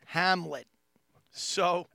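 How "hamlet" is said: put-on Long Island accent. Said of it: "We'll be doing Shakespeare".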